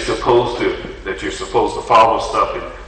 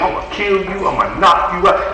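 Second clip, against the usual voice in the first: high-pitched retold fit of temper; mock threats in a raised pitch; mock rage; 7 semitones higher than usual. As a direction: act out being all bent out of shape, without shouting. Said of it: "I'd be all bent out of shape".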